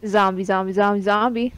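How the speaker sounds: groaning zombie chant. Pretend. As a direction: moan it like a zombie. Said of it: "make a zombie noise".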